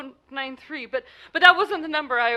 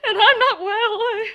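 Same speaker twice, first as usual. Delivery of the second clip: unnerved; 7 semitones higher, 6 dB louder than usual. Acted. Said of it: "it's unnerved me dreadfully".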